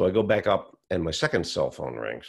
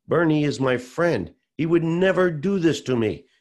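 higher and louder, rising in stunned denial; shocked disbelief; 9 semitones higher, 5 dB louder than usual. Retold or imitated. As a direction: build from bewildered to a loud refusal to believe. Father-in-law refuses to believe the fraud.

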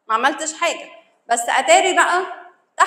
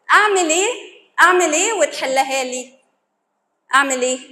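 mock pleading, louder than usual; acted bargaining; 3 semitones higher, 4 dB louder than usual. Someone in shock bargaining over the problem, mock pleading. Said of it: "المساومة بقى".

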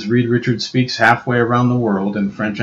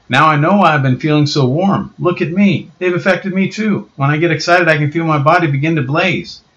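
lightly voiced southern boy, excited; southern accent; 7 semitones higher, 5 dB louder than usual. Johnny discovering his power, southern accent. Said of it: "why he has a southern accent".

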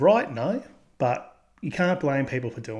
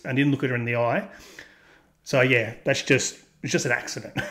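mocking cheating boyfriend. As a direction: play the guilty boyfriend brushing it off. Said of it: "How could that not be cheating?".

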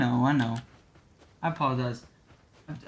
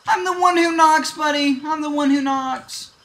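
menacing quote; 5 semitones higher than usual. Pretend. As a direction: boast like a TV villain. Heisenberg quote in game.

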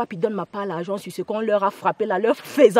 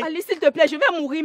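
desperate pleading; 5 semitones higher than usual. Acted. Begs Alice for mercy.

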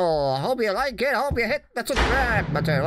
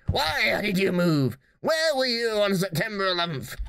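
mock interrogation. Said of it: "I'm going to interrogate you".

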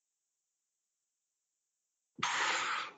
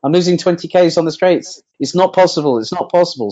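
mock radio complaint, higher pitch; lightly hammed-up, high-pitched grumble; Grosjean; 7 semitones higher, faster than usual. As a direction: imitate an exasperated driver protesting. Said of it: "He said".

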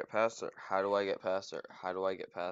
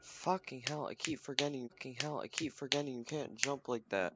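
higher-pitched exasperated complaint; 5 semitones higher than usual. Real, not acted. Player kicking self for forgetting the jump, exasperated. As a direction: grumble at yourself in a raised pitch.

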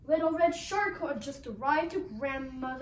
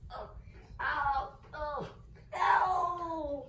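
mock pain cries; much slower than usual. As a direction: play being pounced on. Red being pounced on.

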